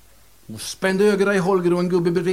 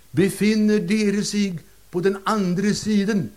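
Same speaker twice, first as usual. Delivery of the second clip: solemn medium; 4 semitones higher, slower than usual. Acted. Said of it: "sa rösten".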